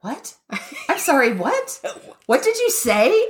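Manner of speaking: lightly played befuddled old lady, rising to high on the last question; a hint of a flustered granny who can't hear; confused old grandma. Retelling a shouting TSA agent, lightly playing a confused grandma. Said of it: "revert to ninety-eight-year-old grandma".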